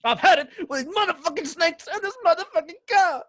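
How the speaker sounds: high mock Samuel L. Jackson line in bad Australian; poor Australian accent. Snake-plagued Aussie driver quoting the movie, bad Australian accent. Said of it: "But in a really poor Australian accent".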